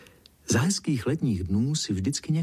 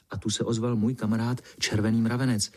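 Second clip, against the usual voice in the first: plain reading voice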